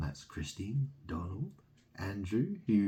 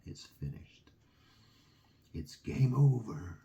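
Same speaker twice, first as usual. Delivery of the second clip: ominous finality; 3 semitones higher than usual. Real, not acted. Final threat.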